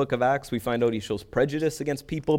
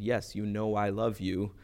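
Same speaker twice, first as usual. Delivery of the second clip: slower, softer repeated answer; hurt repetition; 2 semitones lower, 5 dB quieter than usual. Retold or imitated. Peter answering Jesus once more, slow and subdued. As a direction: spell it out slowly and quietly. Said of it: "you asked again".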